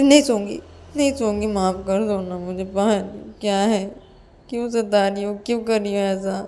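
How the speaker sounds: plaintive refusal sinking into complaint; pleading Ananya, upset. Acted. Ananya refuses to sleep and begs Payal's forgiveness, plaintive. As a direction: protest wearily, with a light whine.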